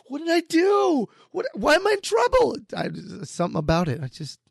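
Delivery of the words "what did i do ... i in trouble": high, rising panicked whine, hammed up; mock alarm, much higher and louder; mock worried. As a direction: play the husband who thinks he's in trouble, pitched way up. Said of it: "I'm always like".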